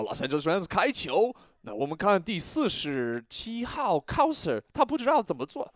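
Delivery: announcer voice. Pretend. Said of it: "announcer voice".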